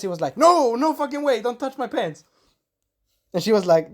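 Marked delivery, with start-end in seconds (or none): 0.4-2.2 nervous. Retold or imitated. Nervous wolf refusing to be undressed, high-pitched and nervous. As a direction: act out a flustered, nervous refusal. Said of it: "He was, like, nervous".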